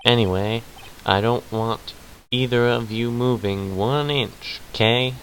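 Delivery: put-on southern accent.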